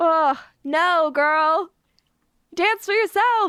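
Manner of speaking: high, sassy, tossed-off delivery.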